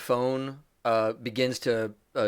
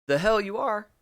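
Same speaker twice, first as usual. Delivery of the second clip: put-on higher, louder Boston gangster accent; 9 semitones higher, 5 dB louder, faster than usual. Scratch King snaps at the caller in a Boston accent. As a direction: snap it in a Boston accent, annoyed. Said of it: "he has a Boston accent as he says".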